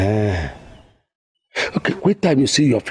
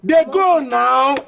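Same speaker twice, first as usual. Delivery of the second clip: high, drawn-out send-off; irritated dismissal; 12 semitones higher, much slower than usual. Acted. Father sends the nosy visitor away, irritated. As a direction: stretch it out high to shoo them away.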